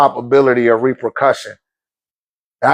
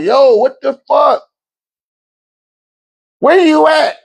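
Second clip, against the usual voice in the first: high, slow, indignant wife voice; a mock-furious wife on the phone; imitating angry wife; 9 semitones higher than usual. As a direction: play the wife calling him out, pitched up.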